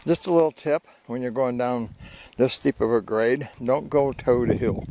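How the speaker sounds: talking while spitting seeds; cracking sunflower seeds. Real, not acted. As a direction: mouth full of sunflower seeds. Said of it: "Sorry, I'm spitting sunflower seeds".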